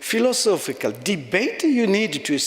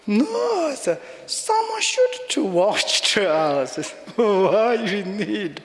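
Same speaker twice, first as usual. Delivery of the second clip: slow, chuckling retort; laughing protest; 5 semitones higher, slower than usual. Real, not acted. Bantering with the priest friend, laughing. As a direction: laugh the words out.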